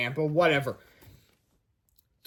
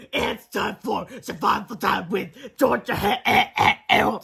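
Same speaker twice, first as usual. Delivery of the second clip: announcer voice; 4 semitones higher, slower than usual. Shown as a demonstration. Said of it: "Okay, I'll stop".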